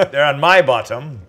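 laughing. Real, not acted. Laughing at a bottom joke.

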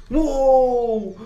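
high, loud victory whoop; triumphant whoop. Real, not acted. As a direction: cheer the win. Wins the fight against Granny.

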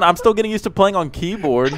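laughing through the words; chuckling while explaining. Real, not acted.

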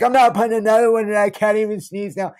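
high, loud, fast protest; exasperated refusal. Retold or imitated. Narrator refusing his friend, high loud exasperated protest.

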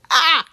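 short, high, loud roar; playful lion yell; mock lion roar. Feeling like a lion, playful roar.

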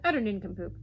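loud contempt, name pitched high; snorting scorn. A narrator's reading. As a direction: dismiss him as beneath contempt. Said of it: "snorted the Duke".

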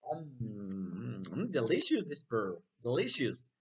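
long low mm, then delicious; yummy tasting reaction; savouring. Pretend. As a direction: pretend to relish a tasty bite. Pretends to taste the pear.

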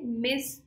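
मिस set apart and stressed; strongly stressed syllable. Shown as a demonstration. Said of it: "this syllable is strongly stressed". (मिस पर साफ़ ज़ोर)

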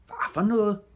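high, loud burst of surprise; startled high-pitched question; astonished. A narrator's reading. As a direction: exclaim in disbelief. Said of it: "sagde Albert forbavset".

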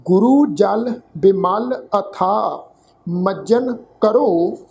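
slow, measured verse reading with pauses; slow sacred-verse recital; scripture recitation. Shown as a demonstration. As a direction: recite each phrase deliberately, drawing out the words. Recites scripture for pronunciation lesson.

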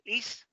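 is con I latina y S sorda; is a la española. Shown as a demonstration. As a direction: di is leído en español. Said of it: "con que la leas en español". (is terminado en S silbada)

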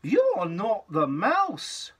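slow, drawn-out accusation; slow storybook accusation; slow accusing child. Acted. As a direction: draw it out, disappointed. Gruffalo's child accuses creature.

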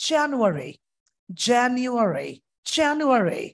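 January run together, "JA-nyoo-uh-ree"; together quickly. Shown as a demonstration. Teacher leads the drill, January said quickly as a whole. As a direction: say January as one word, stressed first syllable. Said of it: "Now qu-, together, quickly".

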